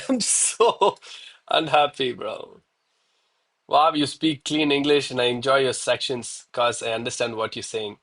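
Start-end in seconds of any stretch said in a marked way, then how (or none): 0.1-2.6 laughing frustration. Real, not acted.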